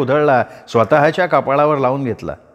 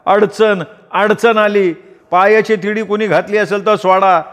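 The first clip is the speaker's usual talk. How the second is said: high, loud pleading call to the god; loud ritual shout; 7 semitones higher than usual. A narrator's reading. The waghya calling to the crowd and god, a high loud plea. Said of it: "वाघ्या मोठ्यानं ओरडला".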